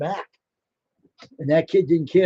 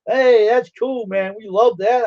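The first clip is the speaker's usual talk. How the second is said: excited cheer; 6 semitones higher, 4 dB louder, slower than usual. Retold or imitated. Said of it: "Me and my friends were saying".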